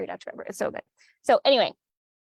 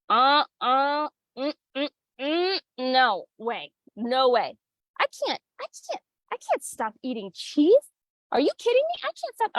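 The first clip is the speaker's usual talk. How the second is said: mock whiny client. Mocking client refusing cheese.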